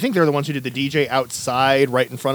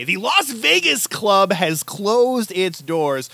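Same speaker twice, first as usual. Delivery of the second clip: slow, solemn news-style announcement; dramatic announcement; 4 semitones higher, much slower than usual. Acted. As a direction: announce it slowly like a death notice. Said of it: "I texted Des this".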